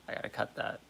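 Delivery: hushed, unvoiced aside; whispered aside. Real, not acted. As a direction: drop to a whisper to yourself. Streamer censoring himself, whispered.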